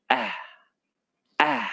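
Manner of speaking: आ sounded out slowly for pupils; vowel demo. Shown as a demonstration. Teacher demonstrating the vowel sound to children, sounded-out आ. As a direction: stretch आ so children hear the vowel. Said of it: "इसका उच्चारण हम अलग तरीके से करते हैं".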